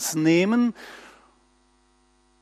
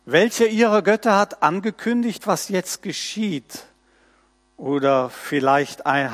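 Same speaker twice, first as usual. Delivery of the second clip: measured, solemn reading of the prophet's words; scripture reading. Acted. Preacher reading Isaiah to his congregation, solemn and measured. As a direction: lift the text off the page for the congregation.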